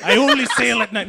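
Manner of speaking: lightly put-on Mexican accent; a hint of a Mexican accent; bad Mexican accent. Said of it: "a bad Mexican accent".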